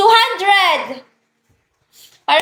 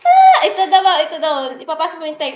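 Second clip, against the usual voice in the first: being tickled. Real, not acted. Tickled, laughing.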